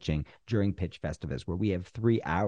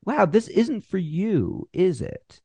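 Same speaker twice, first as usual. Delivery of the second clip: pitcher checking in; 7 semitones higher, 3 dB louder, slower than usual. Shown as a demonstration. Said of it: "maybe you need to go".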